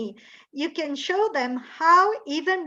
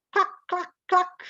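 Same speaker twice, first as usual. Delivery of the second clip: hen clucks; 4 semitones higher than usual. Shown as a demonstration. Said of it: "try to guess what kind of bird".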